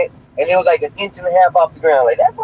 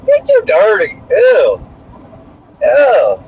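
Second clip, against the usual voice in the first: disgusted; 3 semitones higher, slower than usual. Real, not acted. Reacting to news story.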